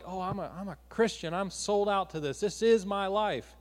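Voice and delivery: a hint of a self-righteous believer; playfully putting on holy airs; mock pious boast. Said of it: "trying to make God like".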